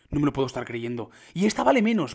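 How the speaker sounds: usual speaking voice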